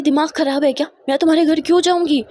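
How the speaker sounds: lightly acted, heated retort; indignant denial. Mother-in-law retorts to her accuser, indignant.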